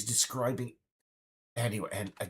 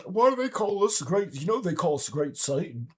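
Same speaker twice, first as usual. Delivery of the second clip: higher, louder, faux-naive question; mock baffled American; 7 semitones higher, 4 dB louder than usual. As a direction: play dumb about being hated.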